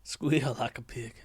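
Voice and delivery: slow, put-on hillbilly drawl; Deliverance hillbilly. Shown as a demonstration. Streamer suggesting a Deliverance joke, slow hillbilly voice. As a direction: lean into a slow backwoods menace. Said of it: "you should say".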